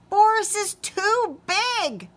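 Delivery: high, loud squeaky mouse voice; panicked tiny mouse; little mouse cry. Acted. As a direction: squeak it out in a fright. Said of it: "cried one little mouse".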